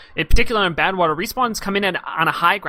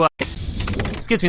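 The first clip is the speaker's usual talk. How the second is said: losing voice; much slower than usual. Real, not acted. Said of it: "I'm losing my voice a little bit there".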